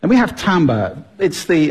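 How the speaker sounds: normal talking voice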